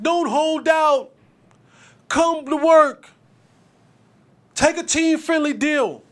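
slow, loud mocking fan chant; mock fan yell. Mocking fans screaming at holdout players, slow and loud. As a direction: drag it out like a fan yelling from the stands. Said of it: "always crying out and screaming out".

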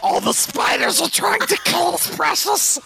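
put-on high Australian-accented Gollum squeal. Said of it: "Now do Australian".

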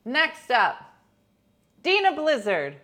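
hammed-up awards host reading nominees; mock Oscars presenter; awards announcer.

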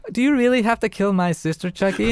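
put-on high, plaintive child's question; pleading little girl. Little sister asking Chucky about killing, pleading. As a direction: voice a small girl appealing to the doll.

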